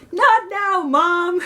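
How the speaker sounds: teasingly copies mom's voice, lightly done; impression of mom. Daughter brushing off her mom at the table, in a lightly mimicked mom voice. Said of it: "Good impression. That sounds like me".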